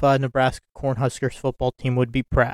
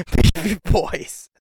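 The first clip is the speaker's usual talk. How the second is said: laughing; 5 semitones higher, slower than usual. Real, not acted. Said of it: "I can't stop laughing now".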